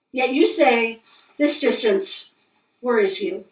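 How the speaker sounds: measured poem recitation with deliberate pauses; poetry reading. Acted. Poet reading a moon poem to listeners, measured recital. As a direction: read each phrase as a line of verse. Reads own poem aloud.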